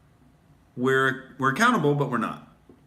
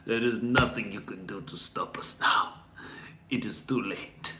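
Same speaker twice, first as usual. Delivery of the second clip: menacing whisper, much softer; whispered evil threat; villain whisper; 2 semitones lower, 5 dB quieter than usual. Pretend. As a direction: hiss the threat close to the mic.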